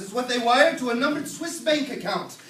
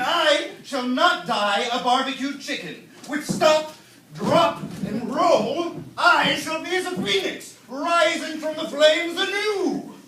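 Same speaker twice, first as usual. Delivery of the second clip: grand heroic boast; 5 semitones higher, 5 dB louder, slower than usual. Acted. Alan's heroic phoenix boast.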